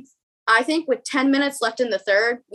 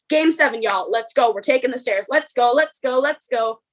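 rally the group like it's game time; pumped up; 2 semitones higher than usual. Retold or imitated. Urging everyone to take stairs.

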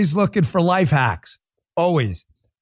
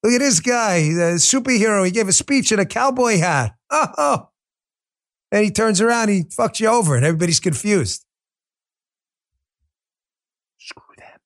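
New York accent; 4 semitones higher than usual. Shown as a demonstration. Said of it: "Back to my non-New York kind of speaking tone".

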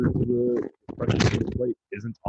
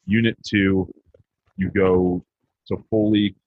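ordinary delivery

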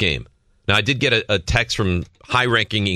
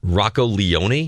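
slow, skeptical tryout; much slower than usual. Shown as a demonstration. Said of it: "Say it".

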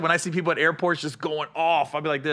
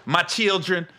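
mock white girl; slower than usual. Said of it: "That's how white girls always describe their mixed kids".

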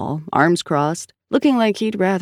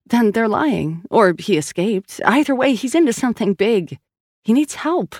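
higher, insistent frustrated woman; Sal's voice; 6 semitones higher than usual. A narrator's reading. Sal insisting to Collins and the doctor, higher and exasperated. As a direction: push through the story, annoyed.

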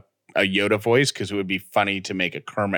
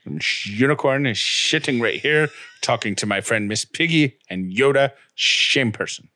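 lightly faked Scottish accent; a hint of Scottish, s slurred into sh; Sean Connery. Co-host keeps the unicorn bit going, amateur Scottish. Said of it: "this sounds nothing like Sean Connery".

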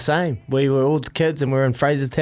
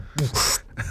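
soft puff of held breath; imitated held breath; 7 dB quieter than usual. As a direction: mimic someone underwater holding breath. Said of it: "he's underneath going".

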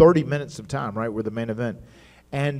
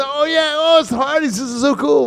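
much higher, thrilled gushing; excited fans; 13 semitones higher than usual. Retold or imitated. Good Brothers thrilled to see the Hardys, much higher. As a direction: gush like starstruck fans. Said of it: "the Good Brothers say".

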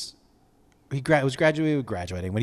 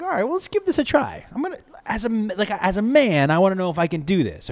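mock bravado; 7 semitones higher than usual.

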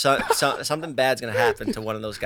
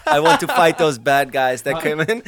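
laughing Hamza imitation; 2 semitones higher, 3 dB louder than usual. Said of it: "when he go like this".

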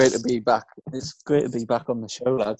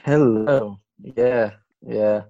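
tired voice; much slower than usual. Real, not acted. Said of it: "That's why I sound really tired".

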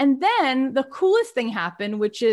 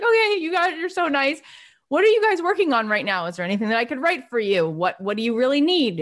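eager and relieved; 3 semitones higher than usual. Retold or imitated. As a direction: rush ahead, thrilled they're nice. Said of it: "I'd be like".

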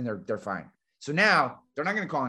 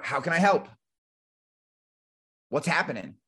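casual open question. Shown as a demonstration. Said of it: "Just a simple, casual, open-ended question".

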